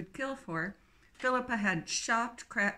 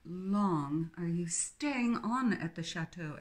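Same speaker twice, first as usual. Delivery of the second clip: mildly menacing; slower than usual. Acted. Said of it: "leaning forward a bit menacingly".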